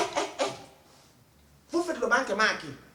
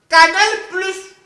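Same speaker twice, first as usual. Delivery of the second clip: announcer voice; 7 semitones higher, 8 dB louder, much slower than usual. Acted. Announcing the channel name.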